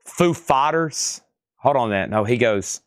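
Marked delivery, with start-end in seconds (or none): 0.0-1.2 a light Christopher Walken take, slow and drawn out. Retold or imitated. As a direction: auctioneer imitating Christopher Walken for bidders, slow and halting. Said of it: "Or as Christopher Walken says".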